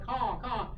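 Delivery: a quick imitation of cawing; toned-down crow call. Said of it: "If you hear a lot of".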